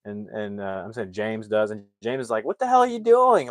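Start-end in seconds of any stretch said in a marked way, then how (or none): 2.4-3.5 high-pitched, louder indignant outburst; outraged retelling. Retold or imitated. James confronting the brother who suffocated him, outraged. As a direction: act out an indignant demand. Acted reaction to being suffocated.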